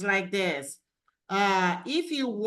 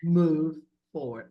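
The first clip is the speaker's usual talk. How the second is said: lightly mimicked Australian accent, lower and louder; imitated Australian accent; 5 semitones lower, 6 dB louder than usual. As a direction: echo it with a hint of an Australian accent. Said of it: "I love your accent".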